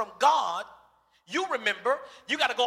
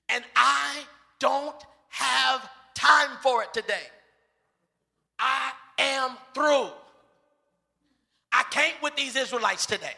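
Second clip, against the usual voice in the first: fed-up, slow; 2 semitones higher than usual. Pretend. Preacher voicing Moses, fed up.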